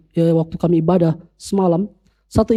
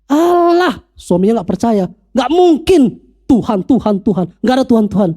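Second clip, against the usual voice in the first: scoffing disbelief; 2 semitones higher than usual. Retold or imitated. Skeptical husband scoffs at prayer.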